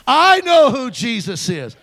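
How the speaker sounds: slow ringing proclamation; shouted testimony. Shown as a demonstration. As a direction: shout it out for all to hear. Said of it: "Come on, shout it".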